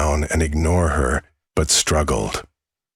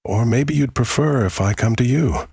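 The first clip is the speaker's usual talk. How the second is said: witch voice; 7 semitones higher than usual. Acted. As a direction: lure him in like a witch. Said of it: "The voice barely sounded human".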